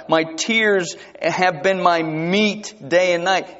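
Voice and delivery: slow, solemn reading of the psalm; scripture reading. Acted. Preacher reading Psalm forty-two to his congregation, slow and solemn. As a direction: lay each line down with weight. Reads psalm aloud slowly.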